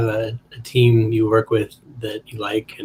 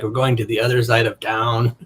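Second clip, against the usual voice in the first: light mock Spanish-Russian accent. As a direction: play a drug dealer with a vague Spanish accent. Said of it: "Why did you do a Spanish accent".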